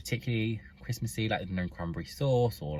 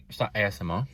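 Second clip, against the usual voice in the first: speaking while chewing; mouth full; faster than usual. Real, not acted. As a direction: talk through a mouthful of food. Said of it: "Sorry, I keep speaking with my mouth full".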